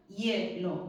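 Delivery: hielo in two beats, hie and lo; hielo split in syllables. Shown as a demonstration. Teacher counting syllables for class, hielo split in two. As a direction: keep hie as one syllable. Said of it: "dos sílabas".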